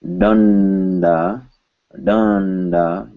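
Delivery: "Danda" with a held n before the d; audible N. Shown as a demonstration. Teacher giving an example to students, audible N. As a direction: let the n sound in "Danda". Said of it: "you will hear an N".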